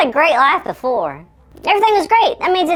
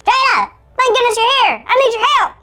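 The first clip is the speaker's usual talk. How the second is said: high frantic elf voice; cartoon elf voice; 5 semitones higher than usual. Shrunken Carl begging Jada for help, high elf voice. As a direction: call for help in a high squeaky voice. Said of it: "sound like a cartoon elf".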